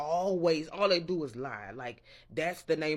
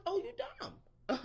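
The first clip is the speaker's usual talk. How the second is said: much higher, slow and drawn out; high, slow mock realization; 4 dB quieter, slower than usual. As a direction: drag it out high like a sudden realization. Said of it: "I'm like".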